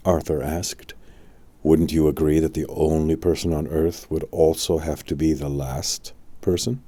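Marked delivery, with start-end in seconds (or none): 1.6-6.8 lower, wry wizard's question; an old wizard doubting the word; a hint of a knowing old man; Merlin.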